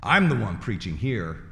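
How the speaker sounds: loud, slow telling-off from the pulpit; imitated scolding preacher. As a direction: imitate a preacher publicly rebuking someone. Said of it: "he yells at the man".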